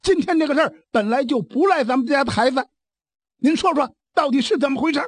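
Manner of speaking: fast, insistent questioning; urgent pressing. Acted. Jiang Ping urging the elder brother to explain, fast and insistent. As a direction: push him quickly for the truth.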